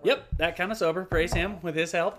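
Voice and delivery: fervent put-on voice; Chet Colton. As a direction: testify like a sober convert. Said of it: "Chet Colton".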